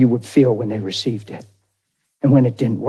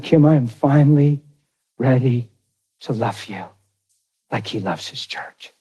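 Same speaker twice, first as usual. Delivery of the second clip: tender vow; 3 semitones lower than usual. Retold or imitated. Retold tender vow to wife.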